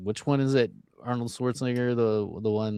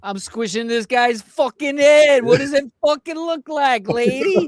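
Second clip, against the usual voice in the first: brute answering; 7 dB louder than usual. Acted. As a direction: bark it back at the lady. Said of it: "And you're like".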